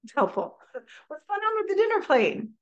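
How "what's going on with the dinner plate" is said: much higher, brighter, asked while smiling; with a smile. Shown as a demonstration. Parent asking child about dinner plate, smiling curious question. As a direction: smile through "What's going on with the dinner plate?". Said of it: "I have a smile. It's helpful".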